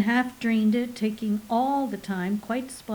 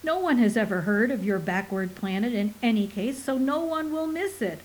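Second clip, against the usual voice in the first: sneer. Acted. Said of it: "Portical sneered unfeelingly".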